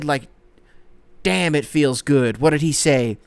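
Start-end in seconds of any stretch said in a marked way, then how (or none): 1.2-2.4 quoting Garnett line. Retold or imitated. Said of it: "He fucking said".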